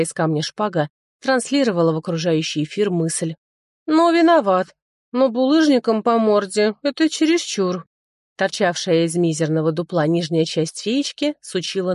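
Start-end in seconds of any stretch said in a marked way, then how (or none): 3.9-7.9 sulking sword. Acted. Sword complains after beating.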